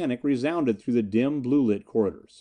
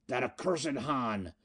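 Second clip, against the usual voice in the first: slow, hushed curse; muttered curse; 8 dB quieter, slower than usual. A narrator's reading. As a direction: curse him under your breath, drawn out. Miko curses as ship falls.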